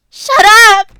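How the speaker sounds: high, piercing shout at full force; furious scream. Acted. Natsuki screaming during the clubroom argument, full yell. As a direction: cut them off with a yell.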